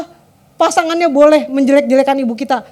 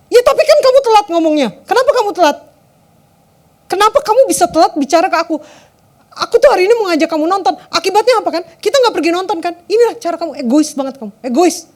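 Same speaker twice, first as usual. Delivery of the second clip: mock raging; 2 semitones higher than usual. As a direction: act out a partner who keeps on fuming. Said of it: "Dia tetap ngamuk".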